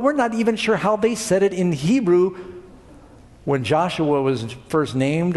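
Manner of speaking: usual speaking voice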